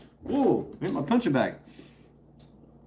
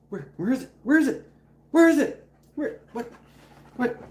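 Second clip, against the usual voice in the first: excited dog teasing; 9 semitones higher than usual. Real, not acted. Hyping up Charity about the toy, building to a high excited call.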